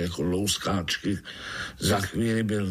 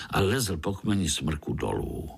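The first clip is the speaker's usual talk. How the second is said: usual speaking voice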